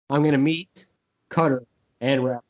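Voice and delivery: lightly voiced killer with separated words; a hint of menacing killer, pausing between words; mock serial killer. Host acting out the job title, mock serial killer. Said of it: "Like a serial killer?".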